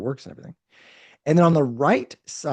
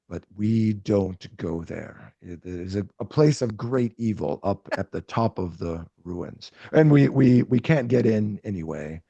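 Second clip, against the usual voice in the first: grave Rat King voice; 4 semitones lower than usual. Acted.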